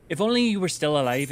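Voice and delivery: put-on tentative Cockney accent; shaky Cockney attempt. Streamer reading game dialogue, attempted Cockney. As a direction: try a Cockney lament, not quite landing it. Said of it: "don't know if I can do Cockney".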